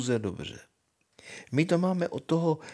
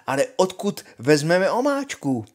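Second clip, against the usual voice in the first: zvolání; 6 semitones higher, 5 dB louder than usual. Acted. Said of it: "zvolala princezna".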